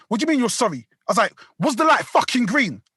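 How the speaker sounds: retold angry demand; acted angry challenge. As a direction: re-enact confronting another driver. Retold row with other driver.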